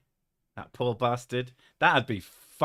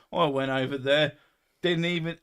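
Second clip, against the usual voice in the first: put-on an American quoted in a London accent; Londoner accent; 3 semitones higher than usual. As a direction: botch the American and slip into Londoner. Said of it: "I know I'm talking like a Londoner".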